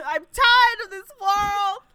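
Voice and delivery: put-on slow, shouted, strangely accented wail; Tommy Wiseau. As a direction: drag out the despair, loud and odd. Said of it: "Tommy's World".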